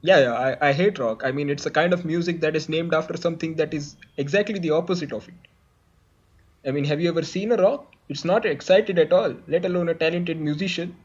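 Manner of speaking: low, hesitant puppet guest; shadow musician guest. Acted. Plays the rock star's shadow guest.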